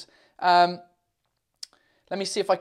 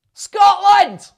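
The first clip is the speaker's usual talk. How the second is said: high, loud, drawn-out cry; excited shout; 13 semitones higher, 11 dB louder than usual. Real, not acted. Streamer hails Scotland before congratulating it, excited shout. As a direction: shout it out like a cheer.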